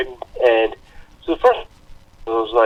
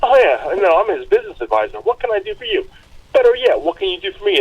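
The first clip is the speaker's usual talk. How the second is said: higher-pitched mock movie wise guy; Joe Pesci; 6 semitones higher than usual. Quoting a movie's business advisor, lightly imitated Joe Pesci. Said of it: "Joe Pesci's like".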